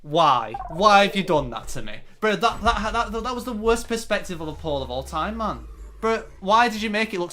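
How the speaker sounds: high, loud, exasperated yelling at the screen; real rage over a lost round; frustrated outburst. Real, not acted. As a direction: rant in real disbelief at the game. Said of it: "I'm actually mad".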